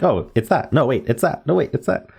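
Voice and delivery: quick changes of mind, pitch climbing with each; mock eager guessing. Puzzle player imitating how traps happen, mock eager. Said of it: "where you're just like".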